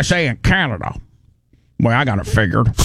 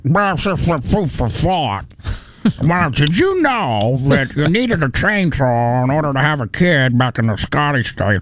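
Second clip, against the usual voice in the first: chewing fact voice. Retold or imitated. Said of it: "Brian was imitating".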